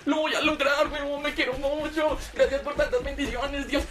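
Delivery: delighted at how easy it is; overjoyed boy thanking God; gleeful. Retold or imitated. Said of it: "Y yo dije".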